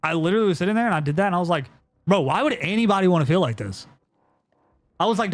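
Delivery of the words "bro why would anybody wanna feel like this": half-panicked; retold freak-out. Telling Matt on the balcony, raised freaked-out voice. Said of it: "'Cause I was freaking out".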